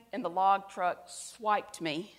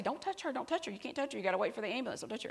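high, soft warning to keep others off; a bystander hushing the crowd, pitched up; anxious onlooker, higher and softer; urgent bystander; 3 semitones higher, 6 dB quieter, much faster than usual. Retold or imitated. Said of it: "I hear somebody say".

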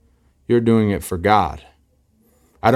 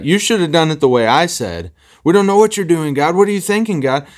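mock exasperated complaint; 6 semitones higher than usual. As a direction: pitch climbing much higher into an exasperated whine at God. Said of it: "That's how we talk".

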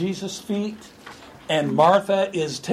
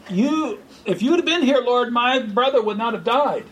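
higher, reproachful; upset Martha; 5 semitones higher than usual. Acted. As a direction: reproach him, a little raised. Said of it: "Martha wasn't too happy".

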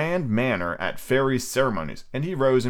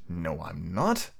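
villain voice; 4 semitones lower, 6 dB quieter, much slower than usual. Acted. Peter villain voice.

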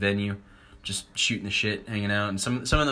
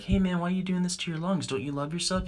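compassionate; 9 semitones higher than usual. Acted. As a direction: plead kindly, as if concerned. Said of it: "You gotta be compassionate".

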